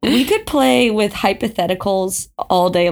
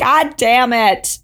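slow, drawn-out mock cursing; full drama; slower than usual. Re-enacting Carrie's outburst, slow and overdramatic. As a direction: curse with hammed-up anguish. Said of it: "That was just, like, full drama".

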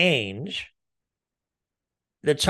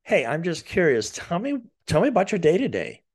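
curious; 5 semitones higher than usual. Shown as a demonstration. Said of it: "So when you're curious".

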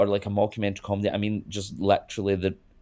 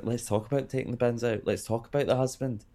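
mock Housewife quote; 4 semitones higher, 3 dB quieter than usual. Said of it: "say my flatmate's annoyed me".

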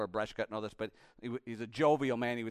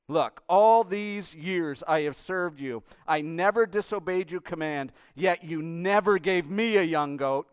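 elder son berating his father; bitter, resentful son; 3 semitones higher, 9 dB louder than usual. Acted. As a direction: drag out every grievance. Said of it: "Hear him?".

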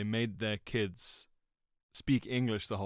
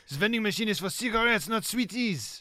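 higher, quicker put-on grouch; grumpy old man voice; 8 semitones higher, 3 dB louder than usual. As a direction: play a cranky shopkeeper. Voicing the man, comic bit.

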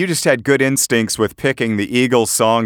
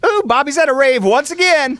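rave announcer; 3 dB louder than usual. Pretend. Mock rave announcement over trance.

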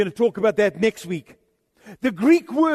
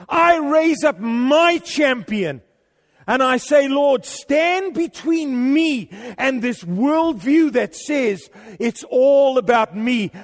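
fervent prayer; 3 semitones higher than usual. Acted. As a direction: build it up into a shout to God. Rising prayer over congregation.

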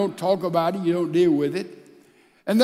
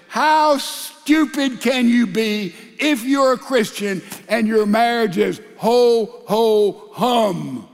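mocking retort; 3 semitones higher than usual. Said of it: "and I'd say".

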